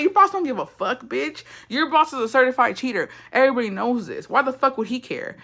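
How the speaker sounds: incredulous telling-off, retold; retold scoffing. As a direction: shoot down a silly excuse. Acts out scoffing at his excuse.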